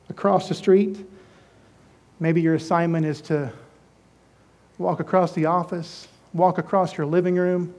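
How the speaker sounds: quiet heartfelt challenge; intimate appeal. Real, not acted. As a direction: lean in and speak to one listener. Pastor's soft personal appeal.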